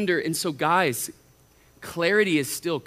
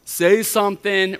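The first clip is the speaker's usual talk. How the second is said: put-on impatient girl; 5 dB louder, slower than usual. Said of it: "sometimes you're like".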